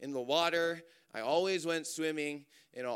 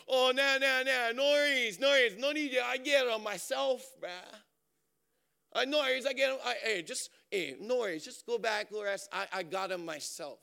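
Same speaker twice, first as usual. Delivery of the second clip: higher, insistent brush-off; stubborn cousin; 6 semitones higher than usual. Retold or imitated. Cousin refuses the lifeguard's help, high and insistent. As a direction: wave away the help.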